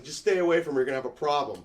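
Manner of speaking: tough threat. Retold or imitated.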